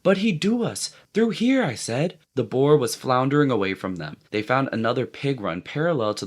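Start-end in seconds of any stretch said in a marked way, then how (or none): 0.0-2.2 shouting. A narrator's reading. Jack calling through undergrowth.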